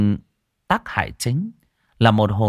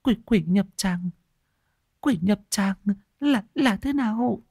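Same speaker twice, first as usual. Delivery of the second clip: panting; 11 semitones higher than usual. Acted. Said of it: "vội vàng hổn hển".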